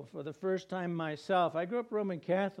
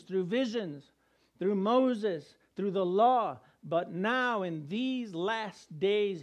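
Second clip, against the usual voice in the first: proclaiming scripture; 4 dB louder, slower than usual. Retold or imitated. Reading Hebrews aloud with emphasis.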